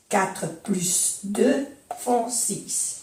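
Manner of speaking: slow, "plus" as "plys"; slowly, with the S of "plus"; sounded S, slow recap. Shown as a demonstration. Teacher recapping the sum slowly with the S. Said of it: "Aquí se pronuncia la S".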